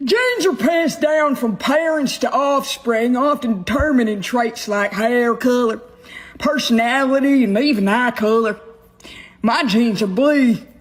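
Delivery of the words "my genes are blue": put-on dumb, dim-witted hick voice. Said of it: "she did a dumb redneck voice".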